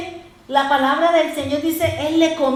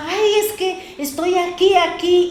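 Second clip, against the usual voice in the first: imitating a crying woman; 6 semitones higher, 3 dB louder than usual. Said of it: "una mujer que lloraba".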